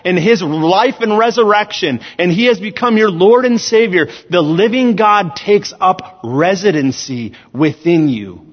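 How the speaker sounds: emphatic, projected sermon delivery; preaching. Real, not acted. Preacher telling the church God lives within them, preaching. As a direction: preach it in measured, weighted phrases.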